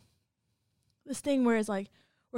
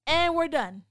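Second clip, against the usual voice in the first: loud, laughing no; laughing refusal; 3 semitones higher, 9 dB louder than usual. Real, not acted. To coworkers about the caller, a loud laughing refusal. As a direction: blurt it out through laughter.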